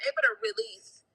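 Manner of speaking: joyful relief. Retold or imitated. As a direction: lift the voice high with relief. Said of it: "tell a family ... and say".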